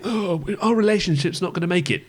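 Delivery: lightly overdramatic reality-show contestant; mock TV drama. Co-host mocking the reality show's drama, mock-dramatic. Mimicking melodramatic TV show lines.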